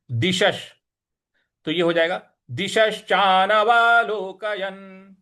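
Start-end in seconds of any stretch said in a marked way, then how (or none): 0.1-0.7 दिशश with slight force; light stress on दिशश. Shown as a demonstration. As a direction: lean on दिशश. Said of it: "थोड़ा सा बल लगाना है". (दिशश पर हल्का बल)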